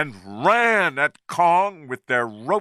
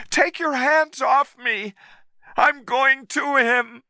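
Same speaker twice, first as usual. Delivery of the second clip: shouted angrily; 13 semitones higher than usual. A narrator's reading. Woman angrily shouting at the man holding her, high. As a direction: snap it as you pull free. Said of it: "she shouted angrily".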